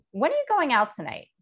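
falling, pointed accusing question; judgmental tone. Shown as a demonstration. Teacher contrasts a judgmental way of asking when. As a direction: press it like a suspicious parent. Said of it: "You can hear the difference".

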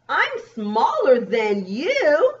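slow, lifted storybook quote; lightly voiced bug teasing a rival; small bug character. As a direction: stretch it out with a rising end. Reads small bug's boast.

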